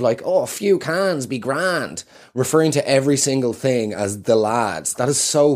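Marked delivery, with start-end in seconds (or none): 0.2-2.0 mocking lad lingo. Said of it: "lingo you see these days".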